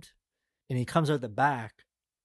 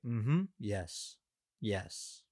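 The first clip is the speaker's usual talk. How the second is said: Jason Statham; 2 semitones lower, 3 dB quieter, much slower than usual. Retold or imitated. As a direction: imitate a blank-faced man of few words. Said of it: "looking at him in a blank face".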